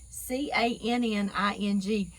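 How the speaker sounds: "C A N N I N G" spelled out letter by letter. Shown as a demonstration. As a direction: slowly spell out "C A N N I N G" for listeners. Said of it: "my southern drawl accent, some of y'all can't even understand".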